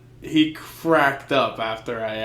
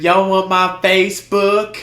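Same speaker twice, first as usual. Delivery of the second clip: mock girly voice; 5 semitones higher, 7 dB louder than usual. Girl voiced in a story.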